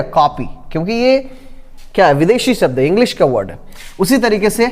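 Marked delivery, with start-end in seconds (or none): 0.0-0.4 "कॉपी" with an open aw; correct aw vowel. Shown as a demonstration. Teacher giving the right form, "कॉपी" with aw. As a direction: sound "कॉपी" between kaapi and kopi. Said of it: "आप बोलेंगे इसको क्या".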